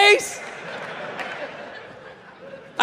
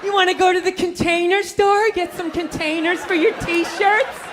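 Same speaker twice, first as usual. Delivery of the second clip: put-on eager girlfriend; 5 semitones higher than usual.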